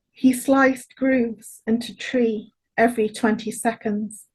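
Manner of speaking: slow, measured recital, phrase by phrase; poem reading. Acted. Poet reading a poem for their grandfather, slow and measured. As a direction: give each image room with long pauses.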